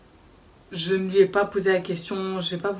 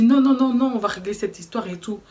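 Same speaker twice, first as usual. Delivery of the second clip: louder, higher stop; retold insistence; 3 semitones higher, 4 dB louder than usual. Boyfriend stopping the narrator, raised. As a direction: block her from leaving. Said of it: "il me dit".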